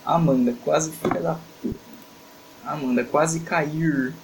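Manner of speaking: put-on slow rural caipira accent, rolled R. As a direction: drawl "cair" with a caipira R. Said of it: "eu vou usar o sotaque caipira".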